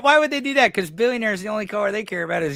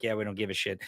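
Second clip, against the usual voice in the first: dismissive; 8 semitones lower, 11 dB quieter than usual. Retold or imitated. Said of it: "And we're like".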